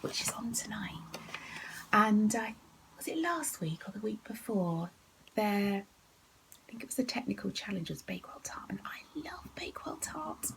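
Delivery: soft conspiratorial whisper; hushed whisper aside. Real, not acted. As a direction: drop to a secret whisper. Whispered asides about Bake Off.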